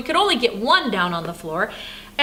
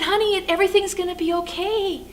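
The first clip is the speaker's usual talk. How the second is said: higher-pitched comforting grandma; retold soothing words; soothing reassurance; 7 semitones higher than usual. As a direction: gently console an upset child. Grandma soothes crying child.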